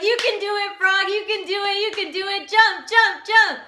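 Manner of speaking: high, loud cheer of a crowd; excited cheering. Acted. Frogs he cannot hear cheering him on, high and loud.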